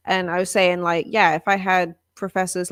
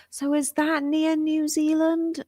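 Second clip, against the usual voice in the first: mock confused listener; 8 semitones higher, slower than usual. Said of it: "they're like".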